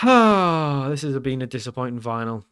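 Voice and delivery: sighed line with an Italian lilt; unintended Italian accent. Real, not acted. Player sighing over the cup final, slightly Italian-sounding. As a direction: sigh it out, slipping into slightly Italian English. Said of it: "I sounded quite Italian there".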